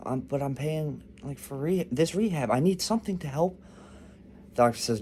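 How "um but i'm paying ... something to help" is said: rising panicky plea, pitch climbing higher; mock panic of a desperate patient; freaking out. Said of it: "The guy starts freaking out".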